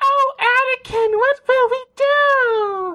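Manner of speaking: put-on very high, grating girlish voice, "do" drawn out. Complaining about a Clone Wars character, the speaker does an annoying Ahsoka voice. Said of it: "has the most annoying voice in the world".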